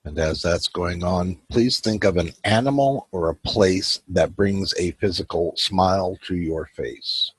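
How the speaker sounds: unhurried meditation guide with long pauses; calm guiding voice, leaving room to breathe; guided meditation. Acted. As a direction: lead them gently through a breathing visualization.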